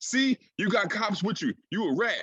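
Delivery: put-on, shrill, very high, jeering yell. Retelling what a rapper yelled with cops in front of him: imitating the rapper yelling. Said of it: "he's yelling".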